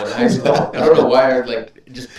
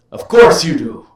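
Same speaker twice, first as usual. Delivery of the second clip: spooky voice; 4 semitones higher, 7 dB louder than usual. Pretend. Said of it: "I can't keep the voice".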